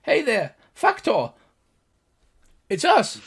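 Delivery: high, loud gnome call; crying out. Acted. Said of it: "The gnome cries out".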